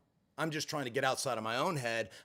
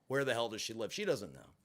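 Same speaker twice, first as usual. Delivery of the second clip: usual speaking voice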